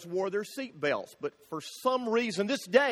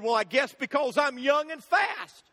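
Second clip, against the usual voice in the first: put-on smug young driver; 4 semitones higher than usual. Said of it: "And the guy said".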